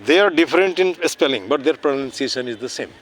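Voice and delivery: very slow, deliberate English; slow explaining. Shown as a demonstration. Teacher explaining homonyms to children, very slow. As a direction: stretch it out so they follow.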